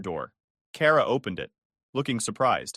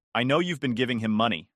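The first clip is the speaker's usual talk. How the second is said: calm but firm. Acted. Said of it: "my voice calm but firm".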